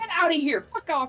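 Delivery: put-on shouting. Retelling how one scares raccoons out of the yard: imitating shouting at raccoons. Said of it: "you're trying to scare, like, raccoons".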